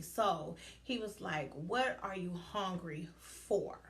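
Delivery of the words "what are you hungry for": slow, drawn-out question; deliberate retold question. Coach asks her what drives her, deliberate. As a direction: space out the words, leaning on "for".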